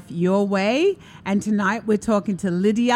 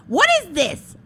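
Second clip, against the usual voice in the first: put-on little girl voice; 10 semitones higher, 3 dB louder than usual.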